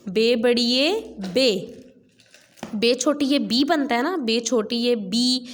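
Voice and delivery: slow spelled-out reading; slow phonics drill. Shown as a demonstration. Teacher drills बे बड़ी ए बे slowly for pupils. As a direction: drill each letter slowly. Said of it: "इसको हम पढ़ेंगे".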